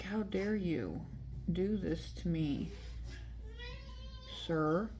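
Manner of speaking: slow, haughty how dare you; prim mock offence. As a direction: scold him like an offended lady. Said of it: "was like".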